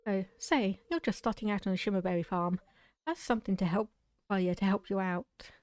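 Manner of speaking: a hint of a Scottish accent, friendly farmer; a touch of Scottish lilt, offering help cheerfully; slight Scottish accent. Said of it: "slipped into a bit of a Scottish accent".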